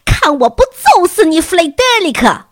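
high, loud scolding cry; tearful threat. A narrator's reading. The relieved mother cries out, threatening her son Frederick. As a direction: shout the threat through tears. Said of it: "这位母亲哭着说".

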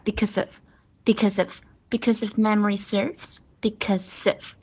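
because of joined as "bi-cuz-if"; repeated linked model of because of; quick linked reading. Shown as a demonstration. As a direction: run because straight into of. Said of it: "所以它再读快一点".

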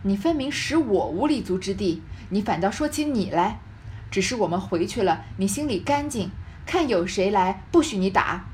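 emphatic, mildly scornful retort; understated icy accusation; cold sneer. Acted. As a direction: turn the blame back with cold disdain. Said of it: "贾母冷笑道".

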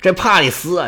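ordinary delivery, nothing marked

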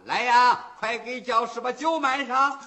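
calling for wine. Acted. Official calls for more wine.

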